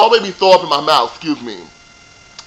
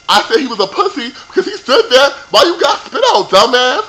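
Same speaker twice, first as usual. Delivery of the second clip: laughing quote; 8 semitones higher, 4 dB louder than usual. Retold or imitated. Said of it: "Emma was like".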